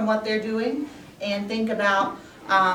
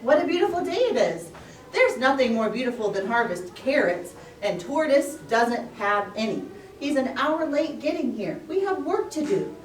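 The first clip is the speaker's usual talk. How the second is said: cheery puppy; 4 semitones higher than usual. Acted. Voicing Puppy.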